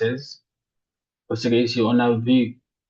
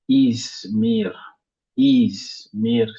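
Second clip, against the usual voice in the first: Izmir with the first syllable drawn out and stressed; teacher's demo of Izmir, weight on "Iz"; much slower than usual. Shown as a demonstration. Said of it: "porte un accent sur la première".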